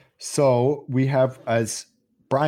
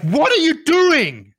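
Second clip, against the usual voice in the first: high, loud, drawn-out shriek; panicked kid crying out in horror; freaked out; 6 dB louder, slower than usual. Retold or imitated. Son catching mum with the can, freaked out. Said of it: "freaked out".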